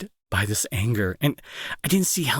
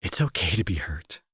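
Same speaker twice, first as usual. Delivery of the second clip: gentle whisper; 4 semitones lower than usual. Acted. Reassuring the hurting friend it's okay, gentle whisper. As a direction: hush it like soothing someone.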